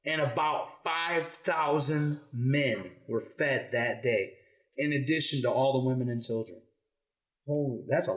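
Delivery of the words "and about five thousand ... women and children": measured read-aloud with weighted key words; story reading to children. Acted. Parent reading the loaves story to kids, measured storytelling. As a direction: read it out clearly for young listeners.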